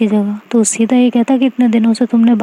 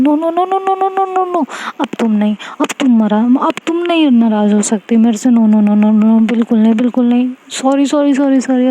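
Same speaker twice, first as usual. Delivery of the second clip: frantic pleading; 3 semitones higher than usual. Acted. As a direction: beg her not to be angry. Begging friend not to be upset.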